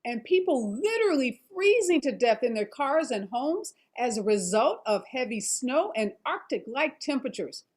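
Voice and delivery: measured anchor teaser read; news read. Acted.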